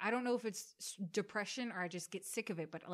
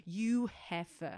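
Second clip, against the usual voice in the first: mock chef insult; 4 dB louder, slower than usual. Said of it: "that's what he would say".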